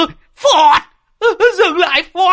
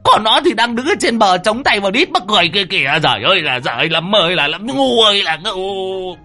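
put-on high, aggrieved old man complaining; high exasperated rant; whining scold; 10 semitones higher than usual. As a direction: berate Lâm, lamenting.

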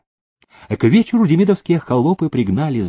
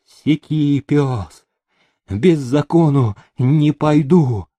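higher, slowing defiant cry; 4 semitones higher, 3 dB louder, slower than usual. A narrator's reading. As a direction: cry out in stubborn refusal. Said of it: "кричала". (упрямый вызывающий крик)

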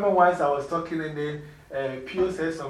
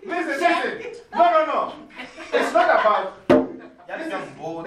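high, loud laughing reassurance; amused teacher settling students; 12 semitones higher, 6 dB louder than usual. Real, not acted. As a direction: laugh while calming them. Laughing, calming the class down.

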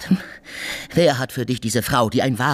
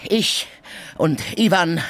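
angry ranting; 9 semitones higher than usual. Acted. Drunken quarrel, bellowing threats.

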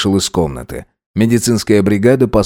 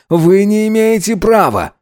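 high, raised protest; indignant cry; 11 semitones higher than usual. Acted. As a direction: cry out in outrage. Salhab protests being taken.

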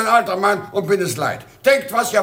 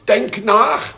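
urgent plea; 5 dB louder, slower than usual. Acted. Father urges son to think.

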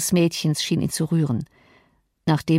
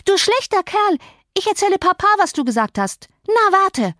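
put-on childish threat; 13 semitones higher than usual. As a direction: threaten to tell Papa. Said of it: "dieser Drohung". (hohe, drohende Kinderstimme)

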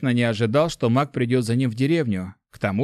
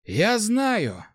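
gentle; 10 semitones higher than usual. A narrator's reading. Mage reassures the young man, gentle. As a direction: say it kindly, drawn out. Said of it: "мягко проговорил маг".

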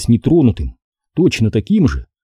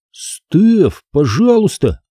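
put-on raised, pleading boy's voice; 7 semitones higher, much slower than usual. A narrator's reading. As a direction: call her out from under the bed. Стеф лезет под кровать, Дуан зовёт. (мальчик умоляет)

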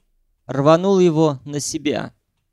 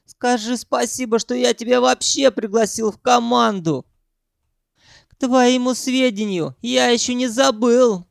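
high, haughty tirade; arrogant Sanyok; 8 semitones higher than usual. A narrator's reading. Sanyok lording it over his hired worker. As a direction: put him in his place.

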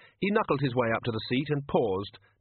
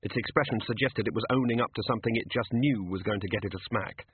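ordinary delivery

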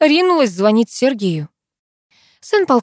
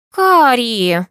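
indignant; 5 semitones higher, 4 dB louder than usual. A narrator's reading. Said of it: "возмутилась она".

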